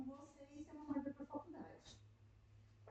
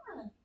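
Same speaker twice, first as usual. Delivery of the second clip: put-on child's scream; 7 dB louder than usual. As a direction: imitate the girl letting out a yell. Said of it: "Falei, grita".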